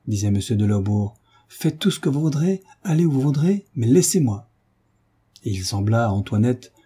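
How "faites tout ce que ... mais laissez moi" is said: agitated. A narrator's reading. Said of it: "la voix de son oncle n'était pas aussi calme".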